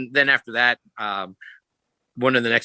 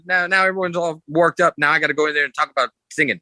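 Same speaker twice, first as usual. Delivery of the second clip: higher and fast, playful exasperation; mock grumbling singer; 6 semitones higher, faster than usual. Singer complaining to the comedian about following him, higher and fast. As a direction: toss it off like a deflated rock star. Retold singer grumbling after act.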